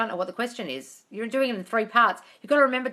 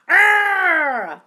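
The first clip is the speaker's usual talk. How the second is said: excited squeal; 9 semitones higher, 9 dB louder than usual. Real, not acted. Reacting to viewer's date news.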